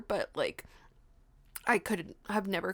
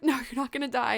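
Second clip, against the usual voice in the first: retold doctor's steady reassurance; reassuring; 3 semitones higher, faster than usual. Doctor answering a frightened patient, reassuring. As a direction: settle the patient's fear, evenly.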